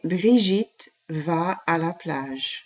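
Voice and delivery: slow, careful French model sentence; slow teaching pace. Shown as a demonstration. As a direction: say each word slowly for the class to copy. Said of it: "Let's repeat that a little bit faster".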